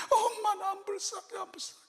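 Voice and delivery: put-on high little child answering; child's voice. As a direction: insist like a small child. (높은 아이 목소리로 고집스럽게)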